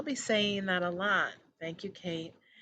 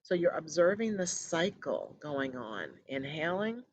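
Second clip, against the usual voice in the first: measured guiding voice with long pauses; guided meditation. Acted. Host settling listeners into breath focus, calm guided meditation. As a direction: ease them gently into stillness.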